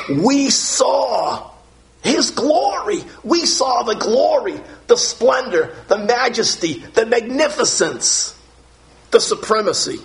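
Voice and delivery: high, shouted, drawn-out proclamation; proclaiming shout. Real, not acted. Preacher to congregation, proclaiming glory in a high shout. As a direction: cry it out to the congregation.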